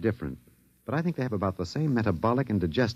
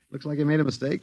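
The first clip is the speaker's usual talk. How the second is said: laughing; 4 semitones higher, faster than usual. Acted. Laughing at the alien.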